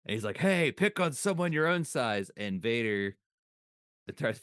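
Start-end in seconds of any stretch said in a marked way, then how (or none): 0.4-2.3 high, loud mock old-man scold; old usher scolding. Old usher scolding Darth Vader, hammed-up high voice. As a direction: squeak it out like a crotchety old usher.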